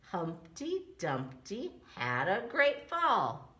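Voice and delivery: slow sing-song reading; nursery rhyme recital. Shown as a demonstration. Teacher reading Humpty Dumpty to children, slow sing-song. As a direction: recite it slowly for little ones. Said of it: "Here is another nursery rhyme".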